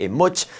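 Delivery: "a much" said as a Punjabi word, a light mock accent. Shown as a demonstration. Teacher naming the mustache in his native Punjabi, "a much". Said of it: "as we like to call it in my native language, Punjabi".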